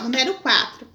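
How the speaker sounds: normal talking voice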